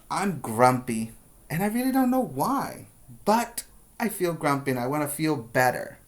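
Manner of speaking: model sentence. Shown as a demonstration.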